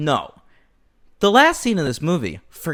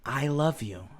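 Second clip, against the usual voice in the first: soft, simple declaration; sincere, unironic; 3 semitones lower, 11 dB quieter than usual. Retold or imitated. Two hard men to each other, soft and sincere. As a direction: say it quietly, without irony. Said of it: "no hint of irony".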